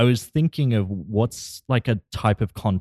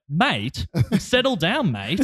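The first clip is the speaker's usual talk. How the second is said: threatening mate; 8 semitones higher, slower than usual. Shown as a demonstration. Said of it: "I'll be like".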